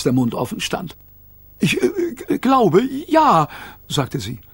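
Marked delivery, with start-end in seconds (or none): 1.6-3.5 much higher, hesitant wife voice; stunned wife. A narrator's reading. Tourist's wife answers her husband, much higher and hesitant. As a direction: stammer it out in disbelief.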